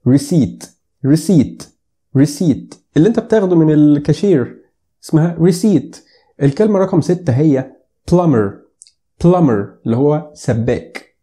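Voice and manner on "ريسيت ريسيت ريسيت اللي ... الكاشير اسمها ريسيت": ريسيت said "ri-SEET", silent p; ريسيت with no p at all; correct English pronunciation. Shown as a demonstration. Teacher modelling receipt for learners. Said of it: "ما بتعرفش تقراها".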